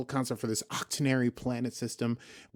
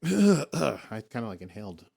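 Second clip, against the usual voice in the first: throat catch; 2 semitones lower, slower than usual. Real, not acted. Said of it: "inhaled dust just then".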